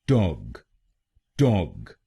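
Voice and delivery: टॉग said alone as "tog" with a short open o; टॉग as a clear "tog"; syllable demo. Shown as a demonstration. Teacher isolating the stressed syllable: टॉग as "tog". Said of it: "हम बोलेंगे".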